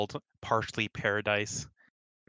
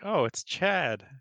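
excited; 8 semitones higher, slower than usual. Acted. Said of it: "He's like".

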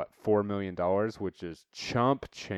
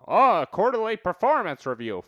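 mock fretting worker; 9 semitones higher, 6 dB louder than usual. Mocking a worried employee.

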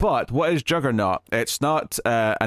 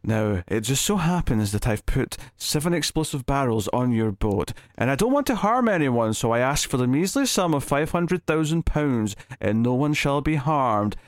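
very polite villain; 3 semitones higher than usual. Retold or imitated. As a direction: make the ransom demand with mild, exaggerated courtesy. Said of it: "he's very polite".

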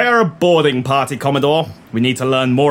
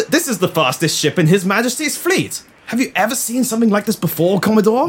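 naval admiral voice; 8 semitones higher than usual. Acted. Admiral voice in radio play.

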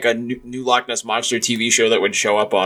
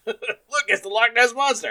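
much higher, put-on villager voice; mock Scottish local; 14 semitones higher than usual. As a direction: squeak out a gullible local's question. Acted villager pointing at monster.

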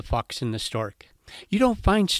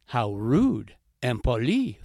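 annoyed heron; 3 dB louder, slower than usual. Acted. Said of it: "thought Le Héron".

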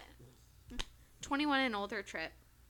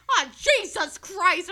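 loud, high, drawn-out exclamation; mock mortified outburst; imitated appalled uncle; 8 semitones higher, 15 dB louder, slower than usual. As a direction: groan it out slowly and loudly in horror. Uncle's appalled reaction, acted.

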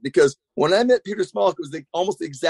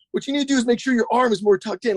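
high, voice-cracking Yoda-like coaching voice; Roddy Mullen Yoda voice; 7 semitones higher than usual. Retold or imitated. Roddy Mullen coaching the speaker over speakerphone, high cracking Yoda voice. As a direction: do Roddy as a squeaky cracking Yoda, all tech. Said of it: "he starts getting all kinesiology".

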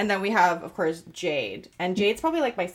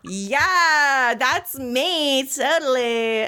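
laughing; 5 semitones higher, 3 dB louder, much slower than usual. Retold or imitated. Laughing along to a bratty song.

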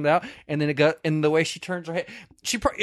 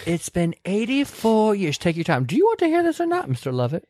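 put-on saucy old Rose; 5 semitones higher than usual. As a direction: tease him like a sly old woman. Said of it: "She was a little bit of a saucy bitch".

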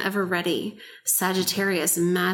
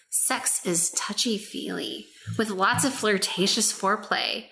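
hammed-up seductive reading; sultry voice. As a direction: lay on the sexy voice. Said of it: "getting really ham on the sultry, sexy voice".

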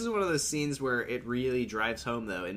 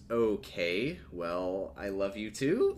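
lower, halting imitation of a reluctant reply; 5 semitones lower, 4 dB quieter, much slower than usual. Amy answers Ben's love declaration, reluctantly. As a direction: imitate a hesitant, half-hearted answer. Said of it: "that's how she says it".

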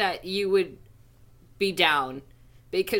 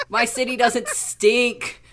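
laughing through a quote; 5 dB louder, slower than usual. Retold or imitated. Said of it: "New Yorker people are gonna be like".

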